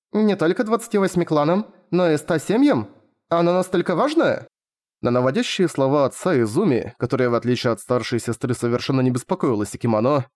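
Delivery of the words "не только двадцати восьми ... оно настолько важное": surprised. Acted. Daughter surprised by the news.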